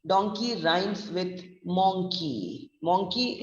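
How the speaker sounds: "monkey" as "MONG-kee", rhyming with "donkey"; slowly match the o in "donkey" and "monkey"; rhyming o vowel. Shown as a demonstration. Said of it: "British English way of pronouncing".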